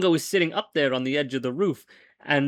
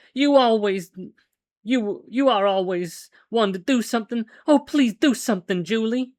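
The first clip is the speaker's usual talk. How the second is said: raised, pleading plea for help; pleading woman; 6 semitones higher than usual. Acted. Kitty begs Big Jewel to stop the monk, pleading. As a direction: beg him to act, voice lifted high.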